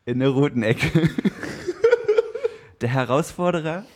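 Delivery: slow, drawn-out fight introduction; boxing ring announcer. Acted. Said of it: "du hast dich übertroffen".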